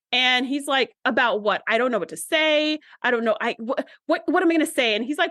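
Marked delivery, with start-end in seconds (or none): 1.1-5.0 stammering mock panic, pitch jumping up; mock flustered. Sam retold, asking Ben what to say, in flustered mock panic. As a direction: act lightly tongue-tied and at a loss.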